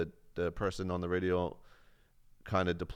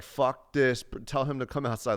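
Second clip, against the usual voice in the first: raised, louder mock-angry demand; retold drunk rage; 6 semitones higher, 4 dB louder than usual. Drunk airman yelling at the sergeant outside the bar, mock angry. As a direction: replay the drunk fury of wanting to fight. Drunk narrator wants to fight.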